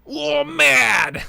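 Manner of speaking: high, loud mock realization; mock robotic suit. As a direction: squawk it like a dumb suit AI. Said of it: "He's like".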